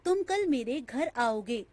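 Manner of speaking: "तुम कल मेरे घर आओगे" said evenly as a statement; statement intonation. Shown as a demonstration. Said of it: "कभी-कभी एक ही वाक्य का उच्चारण जब भिन्न-भिन्न अनुतान".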